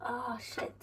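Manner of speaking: breathy whispered swear; under-the-breath whisper; whispered curse. Real, not acted. Lid stuck, swearing under breath.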